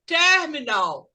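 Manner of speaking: "terminal" with the stress on TER, slowed; first-syllable stress. Shown as a demonstration. Teacher showing where stress falls, "terminal" stressed on TER. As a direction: lean on TER in "terminal", let the rest fall. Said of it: "caem na primeira sílaba".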